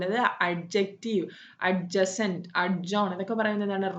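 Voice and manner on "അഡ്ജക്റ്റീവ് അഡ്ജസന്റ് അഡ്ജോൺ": "അഡ്ജക്റ്റീവ്", "അഡ്ജസന്റ്", "അഡ്ജോൺ" with a hard d before the j; sounded D. Shown as a demonstration. Teacher showing the wrong way, D sounded in "അഡ്ജസന്റ്". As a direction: wrongly pronounce each d, as in "അഡ്ജോൺ". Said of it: "wrong ആണ്".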